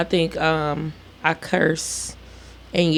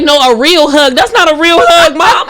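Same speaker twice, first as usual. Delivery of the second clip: imitated whiny child; 5 semitones higher, 4 dB louder than usual. Child demanding a hug, retold.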